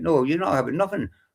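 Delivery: ordinary talk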